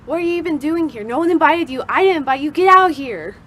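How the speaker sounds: loud, indignant mock scolding; acted road rage. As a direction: chew out a bad driver in hammed-up anger. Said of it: "what would I say?".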